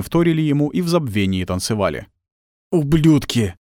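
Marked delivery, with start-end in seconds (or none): 2.7-3.6 сдавленно, с хрипом, без настоящего шёпота; выдави ругательство сквозь слабость; хриплый шёпот. A narrator's reading. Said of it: "выдавливая хриплый шёпот". (хрипло выдавить)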